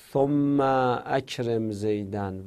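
ثم اکرم with the "a" of اکرم still sounded; hamza kept mid-speech. Shown as a demonstration. Teacher demonstrating a kept hamza, اکرم fully sounded after ثم. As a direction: say "summa akrem", keeping both vowels in ثم اکرم.

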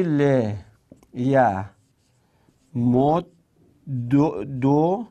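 ل ی مد دو with دو repeated at the end; syllable by syllable. Shown as a demonstration. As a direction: spell out لِیَمُدُّ slowly. (هجا به هجا)

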